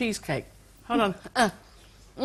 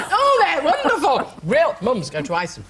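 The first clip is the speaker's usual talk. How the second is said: Kerry Katona. Retold or imitated. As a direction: sell it like a cheesy supermarket ad. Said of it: "I feel like Kerry Katona".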